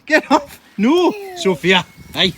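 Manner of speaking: loud, high, drawn-out no; high-pitched, dragged-out telling-off; shouted protest. Real, not acted. Child soaking him with hose.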